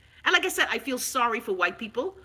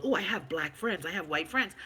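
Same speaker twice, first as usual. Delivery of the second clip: lightly voiced, softer white-person cliché; mock white person; 7 semitones lower, 8 dB quieter than usual. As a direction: say it like a defensive cliché, quietly. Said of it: "sound like white people".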